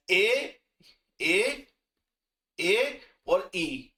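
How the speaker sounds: ए और ई stretched out very slowly; drawn out so students remember; slow demo. Shown as a demonstration. Teacher stresses the vowel change slowly for students. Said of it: "ये ध्यान रखना".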